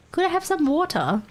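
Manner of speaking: lightly hammed American voice ordering water. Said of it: "Can you imagine saying water".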